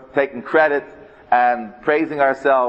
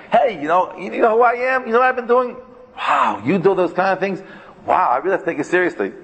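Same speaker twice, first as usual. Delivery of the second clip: bragging show-off; 5 semitones higher than usual. Retold or imitated. Mocking a bragger seeking respect.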